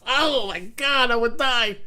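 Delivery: high, slow, scared voice; shaken and scared. Real, not acted. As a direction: still reeling from fright. Just screamed at spider.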